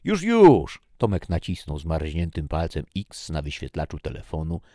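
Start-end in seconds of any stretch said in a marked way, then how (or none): 0.0-0.8 high, loud hurried reply; hasty shout. Acted. Tomek answering the soldier in a hurry, loud high shout. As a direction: yell back quickly that you're coming.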